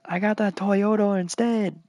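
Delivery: high Asian accent impression. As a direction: keep the put-on Asian accent. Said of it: "And I said in an Asian accent".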